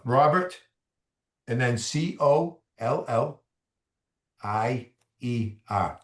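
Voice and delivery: spelling in a Boston accent, slowly; slow Boston spelling, the R dropped; Boston accent, letters drawn out. Shown as a demonstration. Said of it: "That's my Boston accent".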